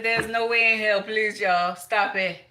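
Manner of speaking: high-pitched loud mock shriek of disbelief; shocked outburst. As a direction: yell it up high in outraged shock. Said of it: "I said".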